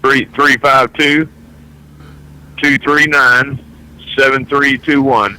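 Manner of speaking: number repeated slowly and clearly. Shown as a demonstration. Caller repeats his phone number slowly for listeners. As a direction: spell it out slowly for people writing. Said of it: "Say that again slower".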